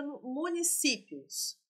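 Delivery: municípios drawn out syllable by syllable; slow, careful pronunciation. Shown as a demonstration. Teacher sounding out municípios for exam students, slowly. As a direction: spell out municípios slowly for the class. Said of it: "teacher repeats the word for students".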